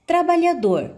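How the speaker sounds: trabalhador pitched high, landing firmly on "dor"; stress on last syllable. Shown as a demonstration. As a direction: hit the final syllable of trabalhador. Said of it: "a última sílaba também você pronunciou com maior intensidade".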